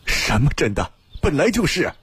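angry retort, pitch leaping at the end; 怒气顶撞. A narrator's reading. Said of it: "新建怒道". (愤怒反驳，尾句音调猛然拔高)

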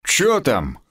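ordinary delivery

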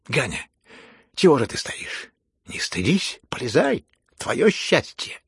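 loud, insistent goading; loud urging. Acted. Heroine goading Ganya toward the fireplace, loudly urging. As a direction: push him on, stretching the last words.

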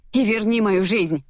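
high, angry demand; snapping back. A narrator's reading. Heroine demanding her life back, snapping angrily. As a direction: throw it back at him, pitched well up. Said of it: "огрызнулась я".

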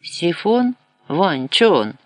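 "Сифон?" jumps high in confusion; baffled by a strange word; puzzled surprise. A narrator's reading. Nastasia asks Van, baffled, with a high puzzled rise. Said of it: "здивовано подивилася на мужичка".

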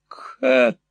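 whispered call; whispering the daughter's name. A narrator's reading. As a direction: breathe the name out. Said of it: "прошептала мисс Никлеби".

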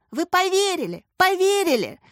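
high, loud eager asking; eager kid hoping the prank worked; hopeful. A narrator's reading. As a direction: plead hopefully, voice rising. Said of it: "с надеждой в голосе".

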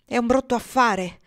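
slow mock grumble under his breath; grumbling to himself. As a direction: mutter it to yourself, vexed. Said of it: "borbottando tra sé".

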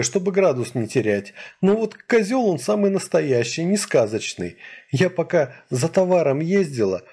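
a hint of a distressed young woman; lightly voiced upset girl.

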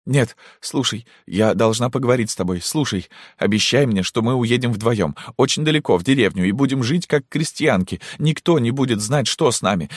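pleading. Acted. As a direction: beg her with everything you have. Daughter begging mother in tears. (умоляюще, сквозь слёзы)

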